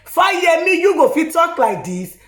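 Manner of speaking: shocked exclamation. Retold or imitated. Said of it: "Even Tinubu himself shock say".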